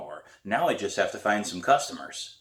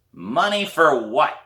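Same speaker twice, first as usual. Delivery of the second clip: put-on hoarse old woman; 6 semitones higher, 6 dB louder, slower than usual. A narrator's reading. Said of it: "It's a hoarse voice".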